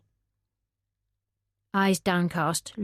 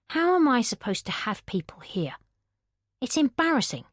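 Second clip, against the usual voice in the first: contemptuous Dev; 6 semitones higher than usual. Acted. Dev complaining about the mess.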